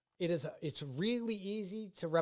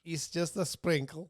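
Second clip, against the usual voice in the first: slow comic voice near usual pitch; slow, lightly put-on joke line. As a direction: draw it out slowly as a silly bit. Riffing on the lemonade joke.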